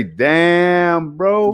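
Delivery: amazed damn. Retold or imitated. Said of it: "You're gonna say".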